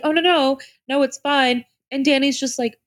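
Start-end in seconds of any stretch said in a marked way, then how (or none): 0.0-1.6 breezy dismissive quote. Retold or imitated. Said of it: "And Lisa's like".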